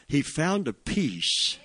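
"found" leaned on, drawn out and settling. Real, not acted. Preacher lingers on Paul's peace for the church, slow and soft. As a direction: let it land slowly, savouring "found". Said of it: "But he found a peace".

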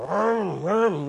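drawn-out motorcycle vroom; playful engine noise; imitated engine revving.

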